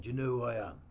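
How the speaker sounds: Cockney tough-guy voice; menacing London hardman; Jason Statham impression. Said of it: "how to do Jason Statham".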